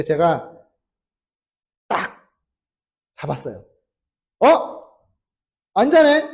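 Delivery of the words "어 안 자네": mock surprise. Father catches daughter awake.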